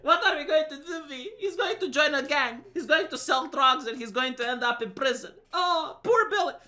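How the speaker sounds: high, loud mock panic; hammed-up wail of a worried mother; panicking wife. Wife frets to husband about their muddy son, mock panicking. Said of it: "she's panicking and she's like".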